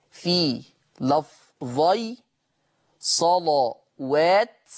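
صلوات with a thick, heavy lam, very slow. Shown as a demonstration. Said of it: "قرأ ورش بتغليظ اللام".

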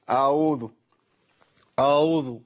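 أعوذ with no throat consonant, "aoozu"; faulty أعوذ missing its ayn; dropped ayn. Shown as a demonstration. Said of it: "فين العين يا شيخ؟".

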